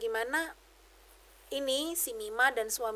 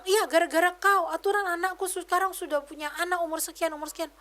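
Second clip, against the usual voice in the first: a retold scolding, raised and higher; accusing in-law; 6 semitones higher than usual. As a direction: mimic an in-law lashing out at her. In-law blames her for childlessness.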